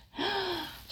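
quick high intake of breath; short soft gasp. Acted. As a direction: gasp softly, as if reliving it. Gasps while telling the tale.

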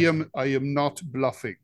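a mild attempt at a Russian accent; Putin accent. Podcast host quoting the Russian president on request, light Putin accent. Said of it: "Do your best Putin accent".

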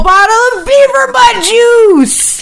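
finding the beaver butt juice; laughing disbelief. Retold or imitated. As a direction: retell the discovery in giggling shock. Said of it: "I was like".

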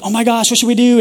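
high, loud, panicky cry; a frantic leader who doesn't know what to do; panicking shout for help; panicked Moses. Acted. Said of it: "And everyone's freaking out".

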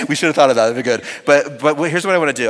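amused. Real, not acted. Still laughing, amused.

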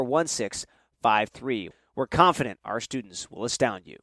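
upbeat sponsor read for a charter school. Acted. Host reading a school sponsor ad to listeners, ad-read voice. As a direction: sell it like a radio spot.

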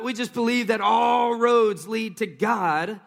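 slow hammed-up shout of a common claim; preacher mimicking skeptics with a slow shout; mock shout. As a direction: belt out what others say, mockingly. Mocking what people say.

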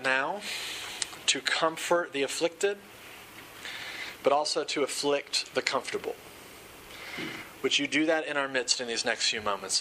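measured prayer in short, paused phrases; sincere congregational prayer; public prayer. Real, not acted. Leads a prayer.

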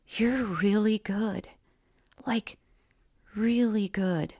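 slow, sincere admission after a chuckle; lightly voiced teacher won over; relieved, surrendering praise. A narrator's reading. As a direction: let the praise out slowly, almost relieved. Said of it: "almost relieved, saying with a surrendering little chuckle".

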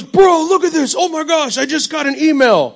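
a hint of a fired-up preacher friend; Lou Engle voice. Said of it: "He's got a voice kinda like Lou Engle almost".

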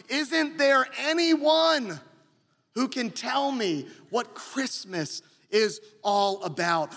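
mock Charlie Brown cry, slow at first; Charlie Brown shout. Preacher imitating Charlie Brown's desperate shout. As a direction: plead it like Charlie Brown at a loss. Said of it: "Charlie Brown just shouting".

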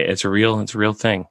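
normal talking voice

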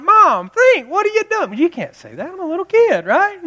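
put-on a small child protesting to mom; whiny kid. Little kid protesting to his mom, high and whiny. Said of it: "I'm like".

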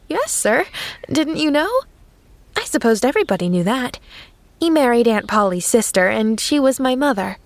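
a hint of a tender little girl; girl comforting the sad minister; lightly voiced sympathetic girl. Pollyanna voiced as child.

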